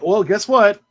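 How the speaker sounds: big announcer reveal; announcing the winner. Real, not acted. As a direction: build it up like a game show host.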